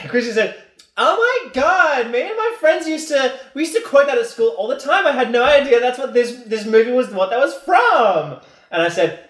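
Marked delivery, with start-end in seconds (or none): 1.0-8.4 put-on high girlish voice; high, gushing girlfriend impression; man doing a woman's voice. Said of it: "do this in Luke's impression of my girlfriend's voice".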